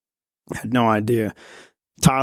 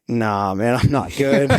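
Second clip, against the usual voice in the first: admitting he's not okay; slower than usual. Retold or imitated. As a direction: wave off the diver with a weak little admission. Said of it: "I just immediately shake my head like".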